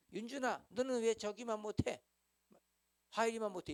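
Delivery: high, loud nagging mother; nagging mom comparing kids; scolding parent. Retold or imitated. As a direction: scold your child for falling behind.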